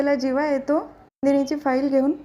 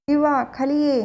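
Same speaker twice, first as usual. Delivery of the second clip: calling from downstairs. A narrator's reading. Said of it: "खालून जीवाला आवाज देतात".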